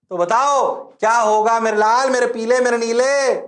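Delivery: high, loud coaxing; rousing call. Real, not acted. Teacher calling his pet students to answer, rousing. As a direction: call out to egg them on.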